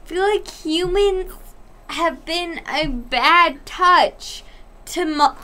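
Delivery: talking through hiccups. Real, not acted. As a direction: hiccup interrupting the sentence. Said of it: "I hiccuped during fucking".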